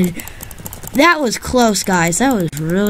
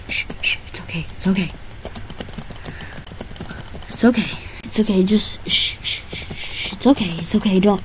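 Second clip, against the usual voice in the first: soft, whispery shushing, hushing it's okay; mock-soothing shh, it's okay; rhythmic shushing; 7 dB quieter, faster than usual. Soothing a game opponent mockingly.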